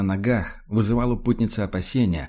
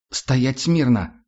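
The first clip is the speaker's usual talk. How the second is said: commanding; 3 semitones higher, 3 dB louder, much slower than usual. Acted. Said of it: "выпалила пепельноволосая всё тем же командным тоном".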